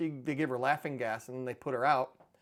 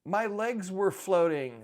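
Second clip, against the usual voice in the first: high, louder, drawn-out mock wail; mock crying; 6 semitones higher, 6 dB louder, slower than usual. Dad imitating daughter waking from laughing gas, mock crying. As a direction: imitate a tearful, woozy complaint. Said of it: "crying, saying".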